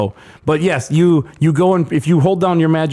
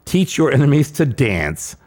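mock quote; much slower than usual. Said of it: "And it says".

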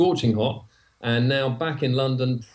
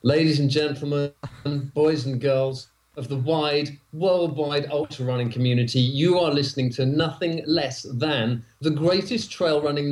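announcer. Acted. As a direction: present the show like a ringmaster, slowing for emphasis. Guest performs the show intro.

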